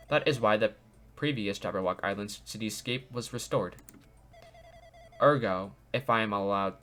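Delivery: lightly robotic AI voice. Acted. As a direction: read it like a calm robot. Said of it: "it's like a robotic voice".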